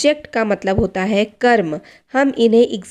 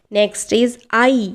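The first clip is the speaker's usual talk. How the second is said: slow announcing; much slower than usual. Shown as a demonstration. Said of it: "teacher announces next word".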